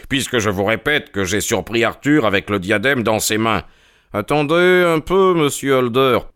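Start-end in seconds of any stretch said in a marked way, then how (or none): 4.1-6.2 firm interruption. Acted. Holmes cuts off the banker.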